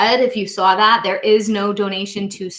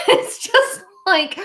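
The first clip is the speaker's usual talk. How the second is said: much higher, louder squeaky-fast squirrel; 4 dB louder than usual. Retold or imitated. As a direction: hype up like a wired cartoon squirrel. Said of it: "And the squirrel goes".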